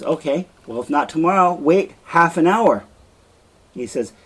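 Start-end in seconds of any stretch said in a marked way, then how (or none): 0.0-2.8 pleading. Acted. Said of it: "And Desdemona says".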